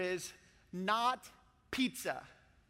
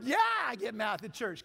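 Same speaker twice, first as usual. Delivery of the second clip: mock excited. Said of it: "some of you math people are like".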